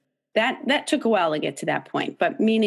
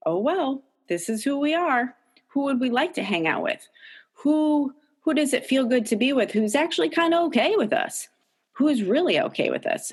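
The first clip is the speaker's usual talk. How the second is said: light accepting tone; 7 semitones higher than usual. Retold or imitated. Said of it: "you can start to say".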